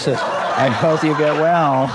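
amused slow mock blessing; slow teasing repeat. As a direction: stretch the wish out with a laugh. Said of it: "he'd look at him and he'd say".

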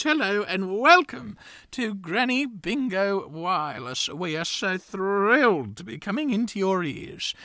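put-on slow old lady host voice; lightly voiced genteel granny; breathy vintage purr.

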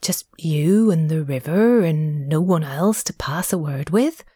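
whispered, hesitant question; a timid whispered question; timid ask. A narrator's reading. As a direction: venture it shyly under your breath. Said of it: "the mole ventured to ask".

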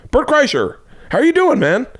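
high, excited greeting; imitated delighted hello; Johnny Knoxville. Acts out Knoxville's happy greeting back.

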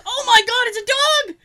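high, loud thrilled gasp. Retold or imitated. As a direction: imitate the nephew's delight at the dog. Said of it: "he goes".

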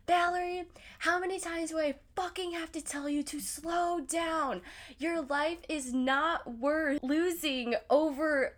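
a light take on an angry mother on the phone; imitating mom yelling. Mom scolding daughter after the car spun, mock high scold. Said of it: "she's over here yelling at me".

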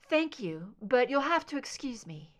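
clipped, composed. Acted. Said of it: "stronger, slightly clipped".

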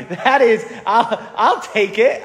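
chuckling through a mock-happy shrug; laughing. Priest joking with the congregation, laughing. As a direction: laugh it off as a joke. Joking about covid time off.

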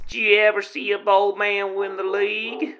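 put-on cowboy accent. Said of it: "interesting accent you've got there".

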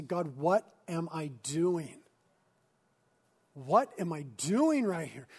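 emphatic, pleading prayer, hitting key words; impassioned public prayer; fervent prayer. Real, not acted. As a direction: plead with God as you lead the congregation. Leading congregation in fervent prayer.

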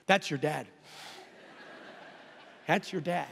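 low, hushed, drawn back; hushed echo. Retold or imitated. Preacher retelling his reply about the dad, hushed. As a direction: say it low and soft, taking it in. Preacher echoes what he answered.

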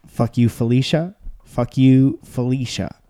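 rising, shouted delivery; loud punchline. Shown as a demonstration. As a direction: belt out the insult. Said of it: "None of that did what I wanted it to do".

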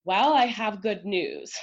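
slow, upbeat bearer of good news; cheery good news tone. Retold or imitated. Counselor on the phone, slow and upbeat. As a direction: sound pleased to share it. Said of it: "And I'm hearing a".

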